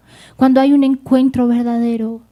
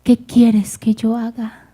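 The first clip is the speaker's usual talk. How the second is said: humbled Saulo; 2 semitones lower, slower than usual. Acted. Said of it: "Saulo dijo".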